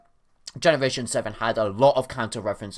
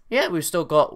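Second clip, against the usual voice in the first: voice crack. Real, not acted. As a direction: voice cracks on the words. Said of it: "voice crack".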